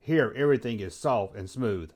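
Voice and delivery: lightly voiced, subdued Star Wars character; a hint of a soft-spoken Jedi; Anakin. Anakin interjects in the host's list, lightly voiced and subdued. Plays Anakin quoting the film.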